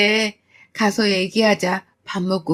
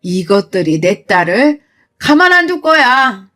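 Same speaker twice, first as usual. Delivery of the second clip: loud, heated rebuke; angry scolding; 5 dB louder than usual. Acted. Mother scolding daughter for hiding abuse, furious. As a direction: scold out of protective fury.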